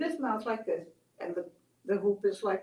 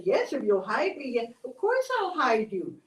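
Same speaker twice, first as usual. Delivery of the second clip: bouncy, higher storybook excitement; eager agreement; 3 semitones higher, 4 dB louder than usual. Acted. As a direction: agree eagerly, swooping up on key words. Excited Cactus agrees to hide lizard.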